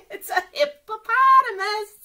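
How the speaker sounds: high, loud delighted announcement; excited reveal. Acted. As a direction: burst out with the surprise for the kids. Page reveals the hippo friend.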